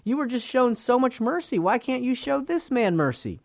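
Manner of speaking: high-pitched, indignant reproach; imagined onlooker's outraged appeal. Acted. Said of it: "We would be outraged at this man".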